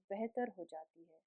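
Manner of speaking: gentle, softened guiding voice with long pauses; guided meditation. Real, not acted. Yoga teacher settles the class into breath awareness, calm meditative guiding.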